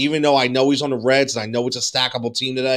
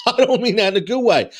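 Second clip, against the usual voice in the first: laughing; 5 semitones higher, faster than usual. Real, not acted.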